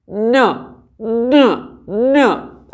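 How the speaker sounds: न said with the nose held shut, muffled; न pinched off through a closed nose; blocked-nose n. Shown as a demonstration. Teacher demos a wrong न with the nose closed. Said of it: "नाक को करूँगा अपने close".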